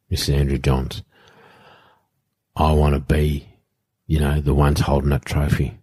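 understated emotion, long heavy pauses; measured, halting delivery, lightly emotional; retold emotional speech. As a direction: retell a teammate's emotional plea with restraint. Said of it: "He's emotional".

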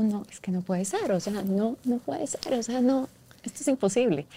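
despairing disbelief. Retold or imitated. Mother's disbelief at diagnosis.

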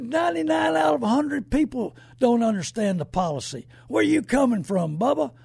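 retold shout. Retold argument with insurance agent.

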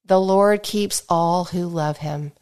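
measured, reverent Bible reading; scripture reading aloud. Acted. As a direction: read the psalm aloud to the congregation with feeling. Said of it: "I'm gonna read it aloud".

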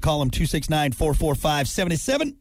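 upbeat sponsor read, half sung. Acted. Host reading the sponsor ad, hammed-up ad read. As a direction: sell the septic service like a radio spot.

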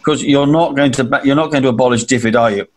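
hint of a pleading minister, laughing; lightly voiced Andrew Mitchell, imitated; mock pleading Andrew. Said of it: "you can imagine the scene".

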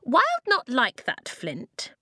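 high, loud little-sister protest; disgusted. A narrator's reading. Blue rejects her brother's advice to curtsy, disgusted. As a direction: protest high, then drop on the name. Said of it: "Blue looked disgusted".

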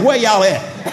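laughing call to the congregation; calling out the church. Shown as a demonstration. Pastor teasing the congregation, laughing call. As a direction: toss it out with a laugh. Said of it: "I just gotta say it like that".

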